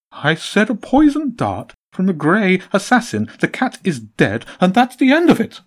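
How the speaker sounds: loud, high, cold pigeon voice; jolliness gone. A narrator's reading. Pigeon boss insisting the cat is dead, loud and menacing. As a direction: menace under the bird voice. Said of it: "The voice lost its jolliness".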